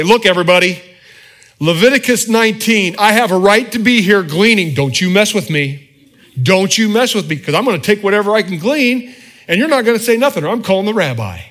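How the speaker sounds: loud, pushy, high-pitched mock demand; mock brash demand. Preacher imitating Ruth barging in on harvesters, loud mock demand. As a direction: shout it like an entitled bully, hammed-up. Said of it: "roll up onto the harvesters and say".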